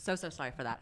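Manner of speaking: soft, laughing sorry; laughing apology. Real, not acted.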